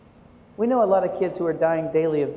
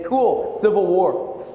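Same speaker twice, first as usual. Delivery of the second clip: mock teen voice; 5 dB louder, much slower than usual. Students joking about an old photo, mock teen voice. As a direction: play the unimpressed teenager, lightly.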